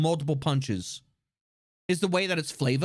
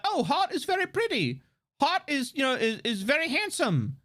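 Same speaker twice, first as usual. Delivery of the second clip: mock swooning fan gush; breathy mock-adoring fan; 5 semitones higher than usual. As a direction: coo over him like a smitten fan. Fans gushing about Heart.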